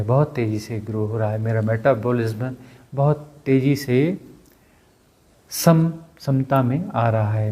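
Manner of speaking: measured, even self-healing chant-like speech; guided healing affirmation. Real, not acted. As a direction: affirm it phrase by phrase, with pauses.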